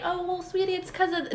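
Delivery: mock soothing mom. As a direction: hush it like a placating mother. Mimicking mom's soothing excuse.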